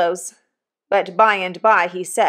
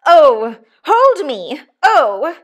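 high, loud wails of outrage; hysterical cries; 7 semitones higher, 8 dB louder, much slower than usual. A narrator's reading. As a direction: cry out as if about to swoon with fury. Wife works herself into hysterical fury.

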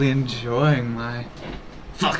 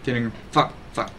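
low, soft sultry mistress voice; lightly played sultry streamer, hushed and deep; 5 semitones lower, 9 dB quieter, slower than usual. Streamer playing a donated sultry role, sultry. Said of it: "back to the sultry mistress".

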